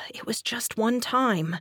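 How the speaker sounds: soft, whispery self-reassurance; self-reassuring. A narrator's reading. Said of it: "I reassured myself".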